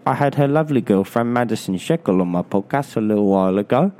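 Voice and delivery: put-on light London accent like Michael Caine; a hint of a Cockney film star. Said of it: "I sound a little bit like Michael Caine".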